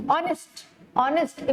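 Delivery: honest said "on-est" with no h sound; teacher shows honest with a silent h; silent h demo. Shown as a demonstration. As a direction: start honest straight on the "o", h silent. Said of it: "हम ह नहीं बोलते हैं".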